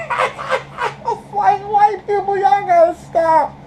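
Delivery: exasperated. Real, not acted. Exasperated plea to white people.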